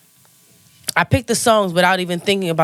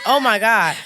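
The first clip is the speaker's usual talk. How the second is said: laughing dismay; 4 semitones higher than usual. Retold or imitated. Reacting to choreography demand.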